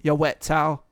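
only a slight Boston accent; weak Boston accent. Shown as a demonstration. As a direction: try Boston lightly, not quite enough. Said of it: "that wasn't Boston enough for me".

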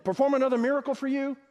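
quick, high-pitched incredulous question; prideful Moses. Acted. Moses challenging the people who want another miracle, prideful. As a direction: act affronted and self-important, pitched well up. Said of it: "in a prideful way".

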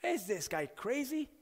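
mildly worked-up, incredulous questions; upset and angry. Acted. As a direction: question his sanity like an affronted crowd. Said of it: "they were upset and they were angry".

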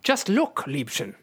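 put-on German-accented endearment; Nightcrawler. Nightcrawler cautions Rogue, in accented character voice. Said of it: "you say".

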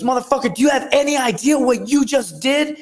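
very high excited shout of disbelief; ecstatic coach. Retold or imitated. Coach entering the cage after the win, amazed shout. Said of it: "He goes".

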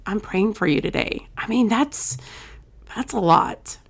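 real, welling up a little; holding back emotion, voice thinning out at the end; getting emotional. Real, not acted. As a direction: cut it short before you get choked up. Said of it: "I'm gonna get emotional".

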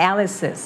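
"Alice's" in three syllables, AL on top; stress on first syllable. Shown as a demonstration. Teacher puts the parts together, "Alice's" stressed on AL. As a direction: lead with AL in "Alice's", drop after. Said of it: "L อยู่บนข้างบนแล้วลง".

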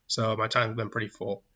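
words over a small burp; burping mid-sentence. Real, not acted. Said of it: "Gotta stop burping".

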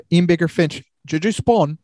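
attempted Australian accent, commentator style. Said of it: "I can't do the Australian accent".

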